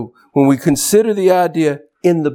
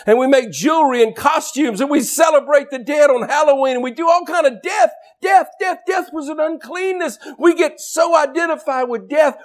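high-pitched, emphatic pulpit delivery; impassioned preaching; 10 semitones higher than usual. Real, not acted. Preacher to congregation about celebrating death, impassioned preaching. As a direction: preach it with rising urgency.

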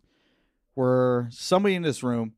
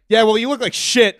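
much higher and louder, laughing through it; loud drunk jab; 11 semitones higher, 13 dB louder than usual. Retold or imitated. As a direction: blurt the insult with a laugh.

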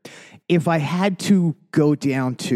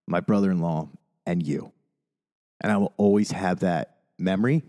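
moved, near tears; 4 semitones lower than usual. Real, not acted. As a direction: let the memory choke you up a little. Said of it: "try not to get emotional".

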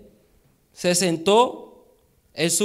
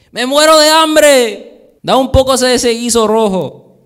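starving Esau; 6 semitones higher, 7 dB louder than usual. Acted.

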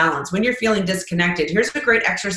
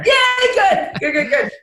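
much higher, bright cheer; delighted yay; 10 semitones higher, slower than usual. Real, not acted. To host who praised the lesson, delighted cheer. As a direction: cheer happily at the compliment.

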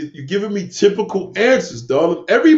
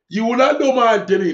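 mock quote; much faster than usual. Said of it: "So Miss Molly said".

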